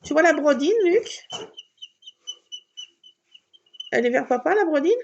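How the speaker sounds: asking Luc loudly where the cat is; calling across the room. Real, not acted. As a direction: shout the question to the next room.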